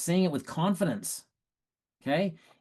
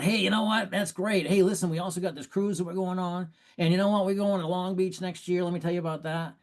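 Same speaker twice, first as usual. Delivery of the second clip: mock over-excited pitch, higher at the start; overeager upsell; 5 semitones higher than usual. Shown as a demonstration. Coach mimicking a closer who oversells, over-excited. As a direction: gush about extras the moment they say yes.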